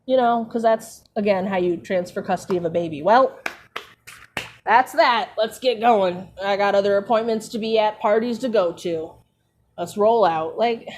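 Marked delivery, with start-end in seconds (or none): 3.0-10.6 breezy, uncaring mock Dumbledore; callous Dumbledore. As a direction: toss it off like it's nothing. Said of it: "the sensitivity he lacks is astounding".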